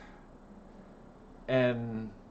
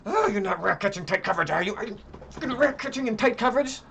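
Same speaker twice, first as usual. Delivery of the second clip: sarcastic mock question; 4 semitones higher than usual. Real, not acted. Sarcastically mocking the user.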